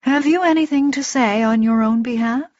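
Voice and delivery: calm formal question, rising at the end; Etri. A narrator's reading. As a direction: ask formally, like a judge before sentence. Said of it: "his tone of voice never changing".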